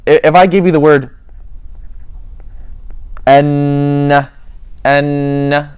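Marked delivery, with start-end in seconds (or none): 3.3-5.7 N held long through the nose; nasal ghunna. Shown as a demonstration. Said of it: "an example of making ghunna".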